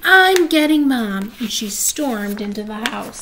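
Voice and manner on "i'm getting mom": loud, slow furious shout; angry yell. Acted. Nancy fed up with Bean, loud angry shout. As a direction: storm off shouting it. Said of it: "yelled Nancy".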